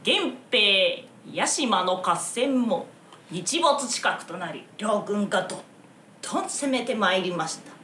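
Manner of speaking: kodan battle recitation. Shown as a demonstration. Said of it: "修羅場読みをちょっと言うてみたらどうですか".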